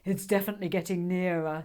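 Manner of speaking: a lightly voiced solemn dragon. The speaker's dragon voice.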